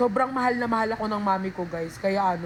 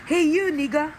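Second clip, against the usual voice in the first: gayang boses ni mami; 6 semitones higher, 5 dB louder than usual. Retold or imitated. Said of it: "Si mami ko yun".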